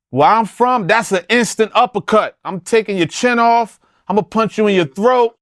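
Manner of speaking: high, worked-up outrage; ranting, pitch climbing; heated rant. Real, not acted. To the podcast hosts, fired up about the burger thief, high and heated.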